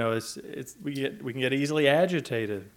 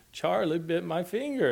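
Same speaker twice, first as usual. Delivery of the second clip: put-on higher, lightly British little-boy voice; attempted British accent; 6 semitones higher than usual. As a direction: have a poor go at a British accent. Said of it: "a British accent? I can't do it".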